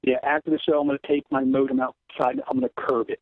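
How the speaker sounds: tinny phone audio; talking over a regular phone; phone line. Real, not acted. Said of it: "Dor's talking on a regular phone now".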